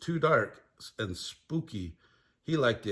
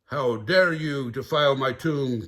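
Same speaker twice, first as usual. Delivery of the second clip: mummy hiss; 6 dB louder than usual. Acted. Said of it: "hissed in a high-pitched voice".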